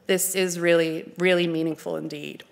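ordinary talk, nothing marked

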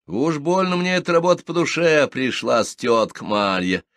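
bright cheeky answer to the teasing; cheerful reply. A narrator's reading. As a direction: toss it back with cheeky glee. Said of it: "весело отвечает".

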